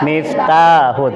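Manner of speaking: Miftahun with the long vowel stretched out; slow drilled Miftahun with a held long vowel; lengthened vowels. Shown as a demonstration.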